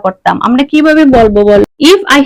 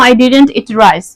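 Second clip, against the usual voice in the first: slow contraction demo; 3 semitones lower, much slower than usual. Shown as a demonstration. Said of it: "সংক্ষেপে যদি বলি".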